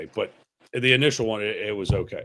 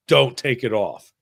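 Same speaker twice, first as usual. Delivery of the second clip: mock command; 6 dB louder than usual. Trainer ordering in story.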